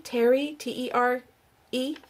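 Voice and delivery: normal talking voice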